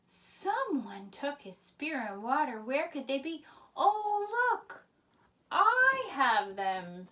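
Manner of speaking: loud taunting call to Abner. Acted. David calling down to Abner, loud taunting shout. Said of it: "David called down".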